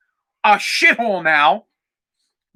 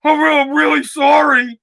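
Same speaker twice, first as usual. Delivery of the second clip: lightly voiced apologetic teenager, a bit higher; poor scared kid; 4 semitones higher than usual. Imitating a teenager apologizing to an officer, poor kid voice. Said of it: "this fucking poor kid".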